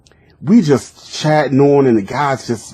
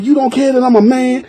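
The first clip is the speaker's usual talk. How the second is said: surprised disbelief; 11 semitones higher than usual. Retold or imitated. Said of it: "I'm like".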